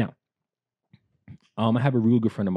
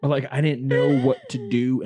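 laughing; 5 semitones higher, 6 dB louder than usual. Real, not acted. Laughing while telling story.

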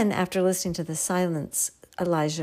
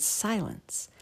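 whispered word; 3 semitones higher, 5 dB quieter than usual. Shown as a demonstration. Word meaning silence.

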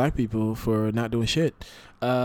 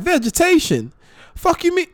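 mock outraged Rudy, pitched way up; incredulous retort. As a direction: voice jumping high in disbelief. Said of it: "Rudy was like".

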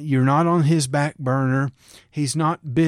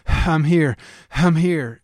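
louder, urgent call of arrival; frantic; 5 dB louder than usual. Pretend. Preacher imagining Jesus rushing in, louder frantic call. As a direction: announce yourself in a rush. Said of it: "urgently and frantically".

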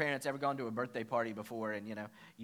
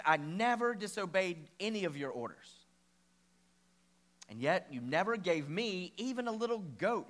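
mild retold anger; 4 semitones higher, 4 dB louder than usual. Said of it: "the older brother became angry".

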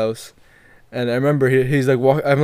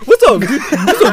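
squaring up; 11 semitones higher, 5 dB louder than usual. Retold or imitated.

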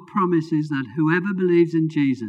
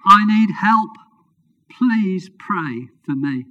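pleading; 5 semitones higher, 5 dB louder, slower than usual. Acted. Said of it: "He pleaded".

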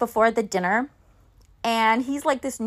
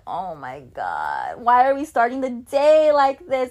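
disgusted groan. Retold or imitated. Kissed by a pushy guest, retold with mock disgust.

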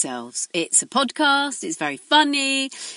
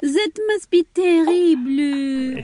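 mock pity; 3 semitones higher than usual. Mock pity, fake crying.

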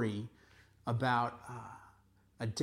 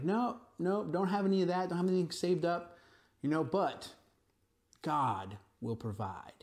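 put-on carefree young man; 5 semitones higher than usual. Suitor answering the girl's father, a lightly voiced carefree young man.

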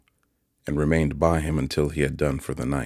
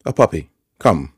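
Joe begs Pip to admit at least a puppy; louder coaxing plea; 2 semitones higher, 9 dB louder than usual. A narrator's reading.

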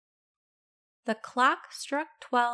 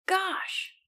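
startled exclamation; 8 semitones higher than usual. A narrator's reading. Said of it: "And Len said".

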